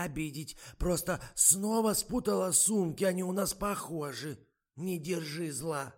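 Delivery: высокий, медленный старушечий голос; ласково уговаривает, как подслеповатая старушка; болтливая старуха. A narrator's reading. Голос старухи Ады Марковны. (высокий тягучий голос старой актрисы)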